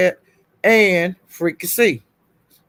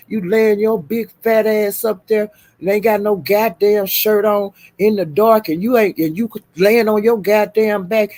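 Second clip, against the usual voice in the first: going off; 2 semitones higher than usual. Retold or imitated. Retelling how he told off another man on the live, mock going off. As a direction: imitate a man chewing someone out. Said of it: "he was going off".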